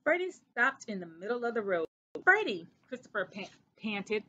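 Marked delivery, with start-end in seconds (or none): 2.2-2.7 calling out. A narrator's reading. Panting call.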